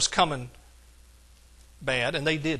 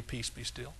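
softly, under the voice; quiet; 6 semitones lower, 15 dB quieter than usual. Retold or imitated. Preacher mimicking an unlikely meek Jesus, quiet. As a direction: say it low and very soft, as a mild command.

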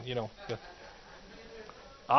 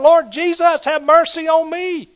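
high, loud pleading cry; desperate cry for mercy; 13 semitones higher, 10 dB louder, slower than usual. Acted. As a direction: cry out to Jesus with everything. Preacher voices the blind man crying out.

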